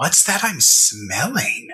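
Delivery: slow, unhurried stage half-whisper. Voicing a character who half-whispers a question to a companion: half-whispering. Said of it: "whispering to Soul".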